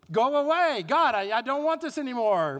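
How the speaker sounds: pleading prayer, loud and high; desperate cry to God. Retold or imitated. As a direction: cry it out like someone fed up.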